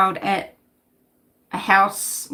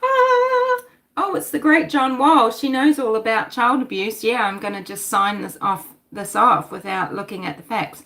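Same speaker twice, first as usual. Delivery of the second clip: mock careless judge. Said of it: "a big call for us to say".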